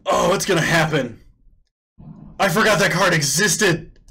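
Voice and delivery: high, loud shouting outburst; real excitement. Real, not acted. Streamer spotting Helix Pinnacle, wildly excited. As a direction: yell it out, thrilled by the find. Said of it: "I am so excited right now".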